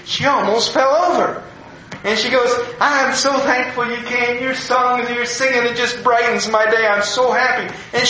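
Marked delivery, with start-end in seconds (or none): 2.8-7.7 retold thankful gushing, a little higher; gushing with excitement. Elderly woman thanks a visiting musician, gushing with excitement. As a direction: gush sweetly, imitating an excited admirer. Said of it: "she was so excited to see me".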